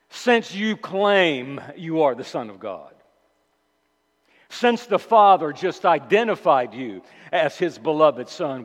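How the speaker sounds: a touch of sarcastic mockery; sarcastic mocking. Preacher voicing the devil's taunt at Jesus, mildly sarcastic. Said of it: "his blasphemous, sarcastic, mocking, accusatory question".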